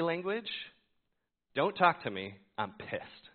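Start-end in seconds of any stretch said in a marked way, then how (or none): 1.5-3.3 annoyed. Retold or imitated. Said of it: "clear in every aspect of my words".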